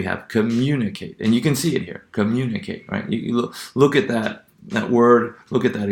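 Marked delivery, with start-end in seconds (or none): 0.3-1.2 "communicate" stressed on MU; antepenultimate stress. Shown as a demonstration. Lecturer illustrating the rule, "communicate" stressed on MU. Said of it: "the ending assigned stress on the antepenultimate syllable". 2.1-2.8 "communicate" with the beat on MU; antepenultimate stress. Shown as a demonstration. Lecturer pointing to the example, "communicate" stressed on MU. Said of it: "the ending assigned stress on the antepenultimate syllable".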